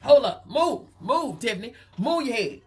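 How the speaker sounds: mock-shocked caller spotting someone behind her; mimicking Ced the Entertainer. Gossip host imitating Ced spotting Common on camera, high and excited. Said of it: "Ced the Entertainer done said".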